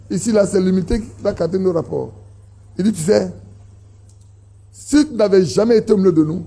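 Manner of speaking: usual speaking voice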